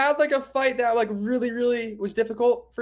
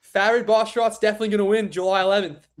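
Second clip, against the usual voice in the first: British accent. Shown as a demonstration. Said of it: "what should I try to say in a British accent?".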